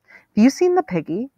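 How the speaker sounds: put-on high sneering party girl voice; mocking partygoer. A narrator's reading.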